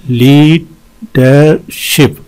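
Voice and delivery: "लीडरशिप" very slow, with long gaps; wide syllable breakdown. Shown as a demonstration. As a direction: pause after each syllable of "लीडरशिप". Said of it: "इसमें तीन हैं". ("लीडरशिप" हर हिस्से पर रुककर, बहुत धीरे)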